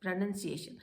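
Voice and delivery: प्रोनंसिएशन said pro-NUN-ciation, nun not noun; correct pronunciation. Shown as a demonstration. Teacher corrects the word for students, careful pronunciation. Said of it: "वो word है प्रोनंसिएशन".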